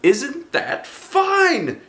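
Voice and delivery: high, bright bear voice calling out; Pooh's cheerful cry. Acted. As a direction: call like a happy little bear. Pooh voiced by narrator.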